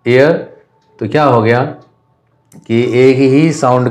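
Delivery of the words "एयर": एयर with the final R left unsounded; silent R. Shown as a demonstration. Teacher showing that R is not pronounced, silent R. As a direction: say एयर as one vowel glide, dropping the R. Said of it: "रॉ का यहाँ पर pronunciation नहीं होता है".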